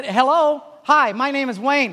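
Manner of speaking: loud, high, overeager hello; eager greeting. Retold or imitated. Escaped man greeting cafe strangers, loud and overeager. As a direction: greet strangers like you're starving for company. Starved for contact, greeting people.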